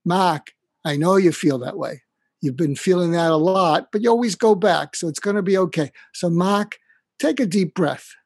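put-on a kindly old dean calling him by name, talking him down; Boston Irish mentor. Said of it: "I'm gonna do my Mac imitation".

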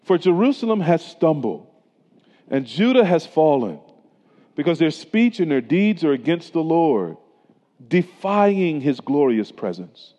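measured, solemn Bible reading; scripture reading. Acted. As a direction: read the verses with weight and gravity. Reads scripture passage aloud.

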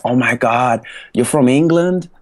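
mimicking an excited American kid, pitch jumping up high at the end; a high, astonished kid's question. Imitates excited American kids.

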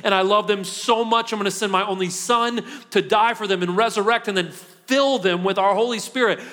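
gently voiced divine promise; voicing God lovingly. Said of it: "and he says".

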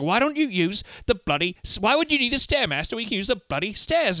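mild mock exasperation, voice lifted; Michael Caine yelling. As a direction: imitate a husband griping at his wife. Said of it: "he's fucking yelling and shit".

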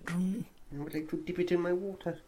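slow, high little rat voice; dreamy tiny rat asking; squeaky rat voice. Pretend. Rat voice continues.

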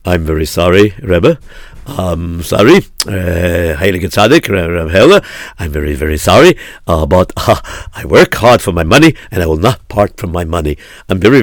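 lightly voiced miser making apologies; apologetic miser. Miser refuses the pleading rabbi.

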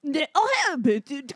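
stumbling bad Irish comeback; Irish accent. Comic auditioning as the Irish rebuttal, broken Irish. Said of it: "the Irish person rebuttal".

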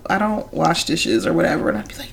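whispered, breath only; hushed mock whisper. Friends' confession whispered back and forth. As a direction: whisper it like a secret.

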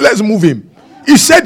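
laughing retold line; amused quip. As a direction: chuckle through it. Doctor reversing himself, laughing.

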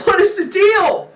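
high, slow, amused outburst; exasperated dad, played for laughs; mock exasperation.

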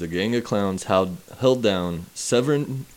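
stumbling over the words; halting, tripping read; reading aloud haltingly. Real, not acted. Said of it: "Let me just trip over every word".

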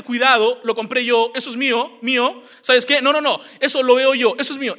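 forceful "it's mine" boss voice; bossy possessive. Acted. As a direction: act a domineering boss staking a claim. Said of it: "como, como un jefe".

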